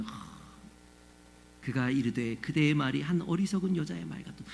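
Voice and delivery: low, soft, placid recitation; mock pious reading, hushed and even; too-nice Bible reading. Shown as a demonstration. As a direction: read scripture far too gently, without feeling. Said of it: "너무 좋게 읽잖아요".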